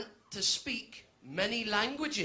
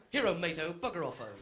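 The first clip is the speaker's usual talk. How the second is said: mock Spanglish; 7 semitones lower than usual. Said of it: "I did it in Spanglish".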